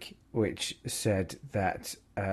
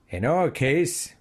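slow, put-on Canadian accent; 5 semitones higher, 4 dB louder, much slower than usual. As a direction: read the quote in a Canadian accent. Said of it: "in a Canadian accent".

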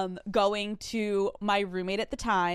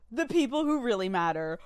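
teary; 2 semitones higher than usual. Real, not acted. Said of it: "about to start crying".

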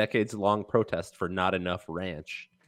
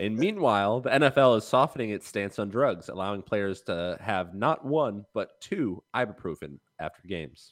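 newscaster voice; 3 semitones lower than usual. Acted. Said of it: "I can't be expected to do a newscaster voice".

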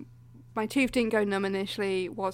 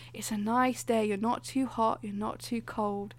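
slow, soothing meditation guide; slower than usual. Retold or imitated. Dentist talks a nervous patient calm in a slow meditation voice. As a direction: ease them down the trail, very slowly. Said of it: "proper meditation".

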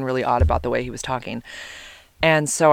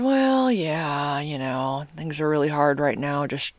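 imitated odd, downbeat phone voice; imitating her date's voice; 4 dB quieter, slower than usual. Sick date answers about finding a donor, imitated odd voice. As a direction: do the odd-sounding date, trailing softer. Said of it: "this is kind of how he talked".

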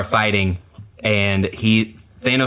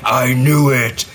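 Thor; 4 dB louder, slower than usual. Retold or imitated. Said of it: "Thor's like".

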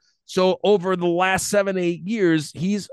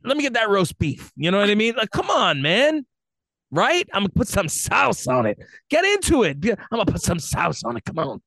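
hammed-up boyfriend; 6 semitones higher than usual. Continues mock boyfriend dirty talk.

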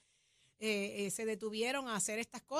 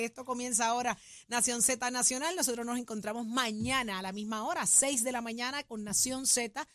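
announcer sign-off; 3 dB louder than usual. Acted. Show sign-off announcer read.

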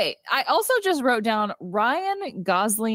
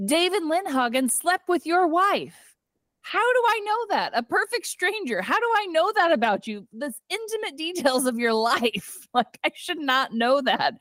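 mock exasperation; 7 semitones higher than usual. The speaker mocking Cal.

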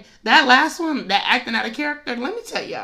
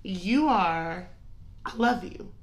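husband's soft nudge; 3 semitones lower, 6 dB quieter than usual. Retold or imitated. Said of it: "He be like".

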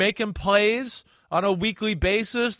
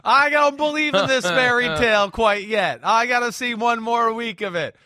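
mock outburst; 6 semitones higher than usual. Mock rant at cohost.

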